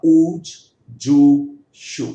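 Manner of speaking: ऊज, जू, शू each with a held oo; long oo demo. Shown as a demonstration. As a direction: stretch the oo in ऊज, जू and शू. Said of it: "बड़े ऊ की मात्रा हो गई।".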